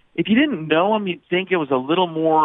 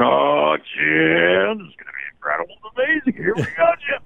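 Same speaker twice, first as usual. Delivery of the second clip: lightly voiced excited announcer, jumping higher; bubbly broadcaster swinging up; hyped Tony Romo; 3 semitones higher than usual. Comedian mimicking Tony Romo hyping to Jim, lightly. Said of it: "Tony Romo's not always out there going".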